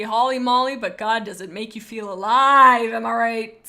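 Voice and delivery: loud, gushing rave about the taste; excited shout. Real, not acted. Streamer to chat, raving loudly about cookies and cream. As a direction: shout it out, thrilled and alive.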